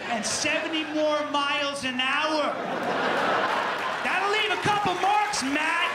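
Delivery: hammed-up triumphant taunt; building to a yell. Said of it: "I'm like".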